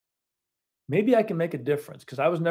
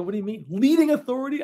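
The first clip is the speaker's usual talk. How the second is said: higher on leading authority, mock disbelief; mock incredulous; 9 semitones higher, faster than usual. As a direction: play back the colleague's shock lightly. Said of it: "I go".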